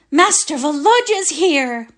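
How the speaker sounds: high bawl of the news; cook bawling. Acted. Natalia the cook announcing the young master, bawling. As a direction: holler it out like a cook. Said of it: "bawled Natalia the cook".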